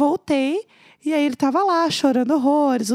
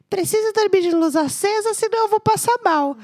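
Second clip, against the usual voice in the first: higher, mock pleading; drunk plea; 8 semitones higher, 4 dB louder than usual. Drunk Neco begging to sleep with the light on, higher pleading. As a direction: beg to keep the light on.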